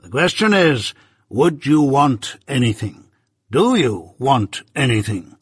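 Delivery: measured, stern lawyer, lightly voiced; Jaggers.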